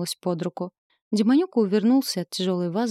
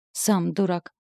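snapping back; slower than usual. Acted. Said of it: "огрызнулась я".

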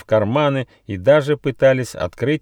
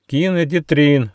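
higher, eager echo of a greeting; raised, in-unison style echo; chorused repeat; 7 semitones higher, 5 dB louder than usual. A narrator's reading. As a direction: repeat it brightly as a group would. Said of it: "дружно повторили Рыж, Гоша и Почемучка".

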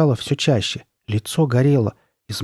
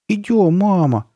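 put-on high, louder child's call; urgent call; 9 semitones higher, 5 dB louder, slower than usual. Boys pulling their mother away, urgent calling. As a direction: call out to mama, drawing it out.

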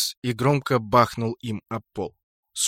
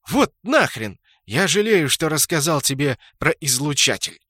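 higher, louder angry curse; swearing; 4 semitones higher, 5 dB louder than usual. A narrator's reading. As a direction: spit the curse out in frustration. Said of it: "выругался Тартуга".

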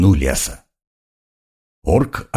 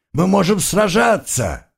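high desperate surrender shouts; shouting; 10 semitones higher than usual. A narrator's reading. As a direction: yell to surrender, pleading. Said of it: "крича и поднимая вверх пустые руки".

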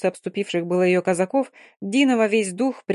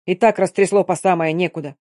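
urgent shouting; 5 dB louder than usual. Acted. Cossack urging nurse loudly.

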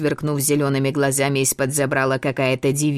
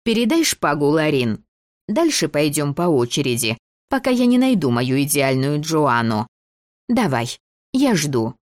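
непреклонная девочка-режиссёр; 2 semitones higher than usual. Acted. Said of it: "была непреклонна".

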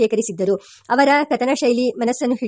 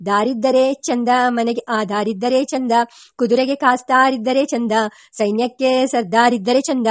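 measured rhyming recitation; lightly lilting devotional rhyme; verse recital. A narrator's reading. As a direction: quote the saint's verse in even, paused phrases. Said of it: "ದಾಸರಾಯರೇ ಹಾಡಿದ್ದಾರೆ".

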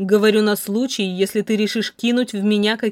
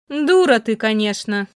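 scolding; 4 dB louder than usual. Acted. Mother scolds daughter.

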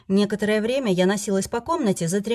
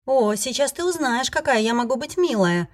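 sweet menace; 5 semitones higher than usual. Acted. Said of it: "пообещала я".

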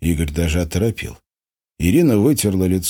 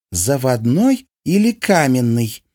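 drawn-out haughty repeat; 6 semitones higher, slower than usual. A narrator's reading. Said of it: "свысока спросила его Анастасийка".

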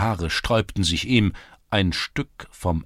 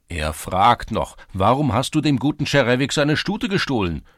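accusing lads; 6 semitones higher, 6 dB louder than usual. A narrator's reading.

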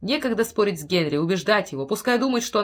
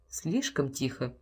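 ominous hush; 6 semitones lower, 8 dB quieter, slower than usual. A narrator's reading. Ominous silence noted.

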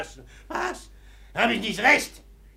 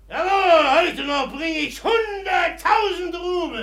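boastful outbid; 6 semitones higher than usual. Acted. Ragoschin boasts a new bid.

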